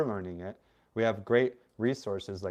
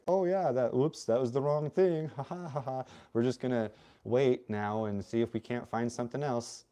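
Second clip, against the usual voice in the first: mock breezy; 3 semitones higher than usual. Mocking officials who botch it.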